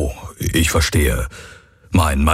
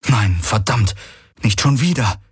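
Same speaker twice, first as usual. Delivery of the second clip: rising in alarm, the last words much higher; dismayed curse; 4 semitones higher than usual. Acted. Garland spotting the returning swarm, dismayed rising curse. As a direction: spit out a despairing curse.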